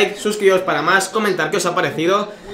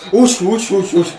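louder anxious uy uy; alarmed; 2 semitones higher, 5 dB louder than usual. Real, not acted. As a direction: gasp at a near own goal. Near own goal.

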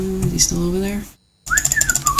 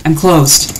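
imitating the clown; 2 semitones lower than usual.

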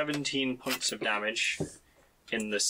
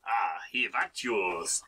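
put-on French accent; 4 semitones lower than usual. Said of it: "you can't say the letter H".

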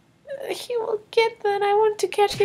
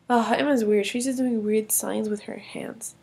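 baffled; 10 semitones lower, 4 dB quieter than usual. Acted. Brother remarking on sister.

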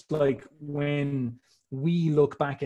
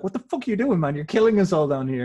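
mock-outraged, higher and louder; protesting wife; 4 semitones higher, 7 dB louder, faster than usual. Humanity as Zeus's wife protesting to him, mock outrage. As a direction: yell it like an exasperated wife, hammed up. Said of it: "all of humanity as his wife".

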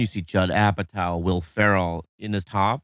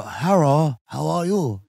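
1 mock Asian accent; 4 semitones higher, slower than usual. Shown as a demonstration. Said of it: "Just go".

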